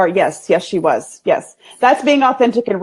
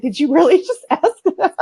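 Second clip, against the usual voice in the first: retold disbelief; 8 semitones higher than usual. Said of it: "She's like".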